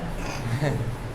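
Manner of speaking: quiet, low laugh under the breath; soft chuckle. Real, not acted. Teacher after joking about fools at the gate, soft chuckle. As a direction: give a small, soft chuckle.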